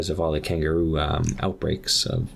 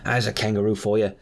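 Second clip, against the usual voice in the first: put-on Australian accent; 2 semitones higher than usual. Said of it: "he's clearly Australian".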